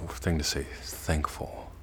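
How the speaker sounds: inward thankful. Shown as a demonstration. Teacher contrasting thankful with thanks, soft inward. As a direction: let thankful sink inside. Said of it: "It's another".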